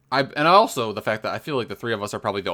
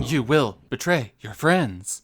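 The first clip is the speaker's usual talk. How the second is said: put-on slow old god voice; slower than usual.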